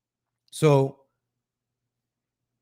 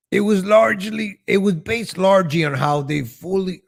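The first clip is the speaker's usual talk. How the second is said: higher put-on voice, then slipping back; attempted impression; 4 semitones higher than usual. Reading a quote in a put-on voice that keeps failing, higher. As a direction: try an impression and lose it. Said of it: "I can't do that voice".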